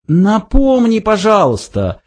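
high-pitched, meek plea; humble request. A narrator's reading. Zaphod asks to be reminded, humbly. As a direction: ask meekly. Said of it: "смиренно попросил Зафот".

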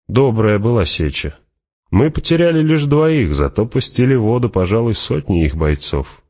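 high, lilting fighter's voice; Fremen warrior, matter-of-fact boast. Acted. Fremen reports the battle to Hawat, breezy and high. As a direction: recount it with lively, swinging pitch.

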